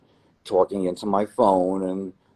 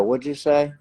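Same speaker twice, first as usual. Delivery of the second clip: higher, amazed what'd you say; stunned disbelief; 8 semitones higher, 3 dB louder than usual. Retold or imitated. Telling a club stranger story, stunned disbelief. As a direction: act floored by the coincidence. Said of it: "I go".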